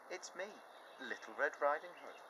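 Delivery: put-on wolf faking a girl's voice; wolf pretending. Wolf pretending to be the girl, light. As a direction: fib sweetly at the door. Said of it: "The big bad wolf said".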